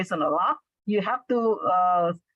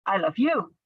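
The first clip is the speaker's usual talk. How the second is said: "you" raised at the end, then falling; stress on YOU. Shown as a demonstration. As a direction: save the weight for "you". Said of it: "with the stress on the last part".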